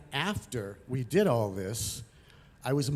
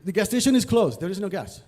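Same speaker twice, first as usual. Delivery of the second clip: mild retold yell, higher and firm; yelling back; 5 semitones higher, 5 dB louder than usual. Tow truck driver turns away two punks, mock yelling back. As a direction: imitate a driver calling back a refusal. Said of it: "tow truck driver yells back at them".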